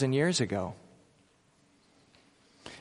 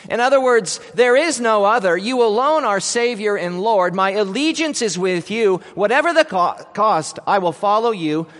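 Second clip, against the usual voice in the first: proclamation; 4 semitones higher, 5 dB louder than usual. Acted. Preacher voices Peter's proclamation.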